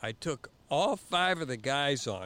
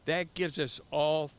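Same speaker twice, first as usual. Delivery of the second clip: higher, louder insistence on the course; raised, confident retelling; firm correction; 5 semitones higher, 4 dB louder than usual. Retold or imitated. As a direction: lay out the plan like you're in charge. He counters with own course.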